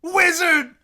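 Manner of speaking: high, loud, slow mock screaming; hammed-up screaming. Reader acting out Addie and Richard's screaming match. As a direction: bellow each word as a hammy exchange. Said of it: "screams back".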